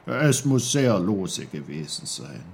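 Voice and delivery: Uncle Pfefferkorn, lightly voiced and kindly; lightly voiced old uncle. Uncle Pfefferkorn reassures the snowdrop, lightly voiced.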